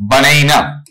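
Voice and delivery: "बनेना" with an 'ei' middle vowel; American pronunciation. Shown as a demonstration. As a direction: model "बनेना" for students, American-style. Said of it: "मैं तोड़ के लिख देता हूं". ("बनेना" का अमेरिकी उच्चारण, बीच में 'एइ')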